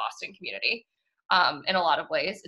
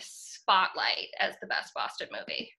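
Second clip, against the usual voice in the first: whisper; 5 dB quieter than usual. Real, not acted. Whispered announcement of pick.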